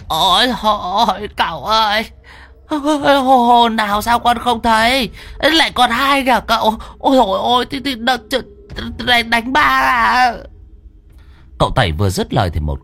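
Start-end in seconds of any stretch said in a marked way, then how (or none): 0.1-10.3 stammering with terror, near sobs; wailing in terror. A narrator's reading. Terrified old man wails to the sorcerer, high and tearful. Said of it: "Ông Đồng kêu lên".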